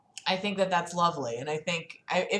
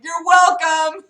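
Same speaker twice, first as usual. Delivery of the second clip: slow, louder mock shout of you're welcome; shouting back; 8 semitones higher, 8 dB louder, slower than usual. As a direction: call it out cheerfully across the street. Shouting back to fire truck.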